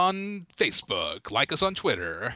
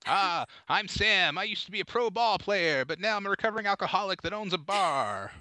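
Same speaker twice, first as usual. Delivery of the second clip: higher, lightly voiced sitcom character; a hint of a bar owner; hammed-up introduction; 5 semitones higher than usual. Sitcom barman introduces himself, hammed-up.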